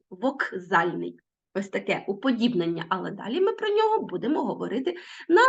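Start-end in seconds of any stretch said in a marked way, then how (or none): 0.1-1.2 Вокзальний slowly with the к said as г, like вогзальний; slow Вокзальний, к heard as г; к voiced as г. Shown as a demonstration. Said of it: "Ми пишемо звук К, але чуємо як Г".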